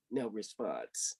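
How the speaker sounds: dry deadpan refrain. A narrator's reading. Narrator's flat repeated refrain.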